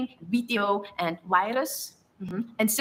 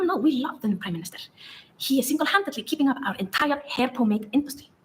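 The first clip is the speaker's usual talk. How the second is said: lightly hammed-up Icelandic accent; 2 semitones higher than usual. Shown as a demonstration. Narrator sprouting pure nonsense to foreigners, fake Icelandic accent. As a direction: deliver it in a mock Icelandic accent. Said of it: "most receptive to the Icelandic accent when".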